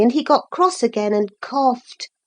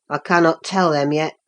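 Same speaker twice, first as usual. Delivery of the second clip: lower, sheepish country lad; lower, sulky Yorkshire boy; 9 semitones lower than usual. Acted. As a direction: admit it grudgingly, voice low. Hareton admits he's stuck.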